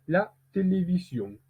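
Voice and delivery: "La télévision" with weight on the last syllable; final-syllable stress. Shown as a demonstration. Teacher drilling an isolated word, final stress on "télévision". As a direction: let "télévision" land on its ending. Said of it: "faire attention à où est-ce que l'intensité sonore".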